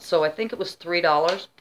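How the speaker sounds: talking with the hiccups; speech broken by hiccups. Real, not acted. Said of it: "I have the hiccups".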